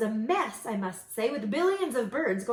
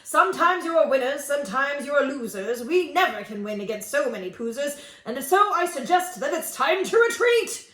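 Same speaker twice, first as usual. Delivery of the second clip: louder pompous general voice; shouting general; 3 semitones higher, 5 dB louder than usual. Acted. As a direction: bluster an excuse to retreat. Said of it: "shouted out to his men".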